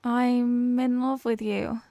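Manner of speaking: slow, careful confession of love; slow shy confession. Acted. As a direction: let the words out slowly like a held secret. Shy confession after stalling.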